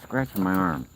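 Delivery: mildly irritated scolding; getting pissed. Real, not acted. Man to raccoon biting and scratching him, real rising irritation. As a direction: tell the animal off, patience running out. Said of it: "Now I'm getting pissed".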